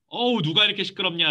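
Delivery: lightly acted irritation; mock annoyance. Acted annoyed reaction to noise.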